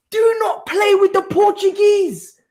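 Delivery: real gloating yell; triumphant shout. Real, not acted. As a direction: taunt the rivals in triumph. Celebrating Sporting win.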